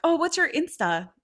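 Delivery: high-pitched imitated casual ask; mock flirty request. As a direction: imitate a stranger chatting someone up, pitched high. Retold stranger asks for contact.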